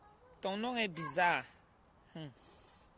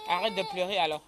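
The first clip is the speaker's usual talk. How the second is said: firm scolding; 7 dB louder than usual. Real, not acted. Telling crying child to stop.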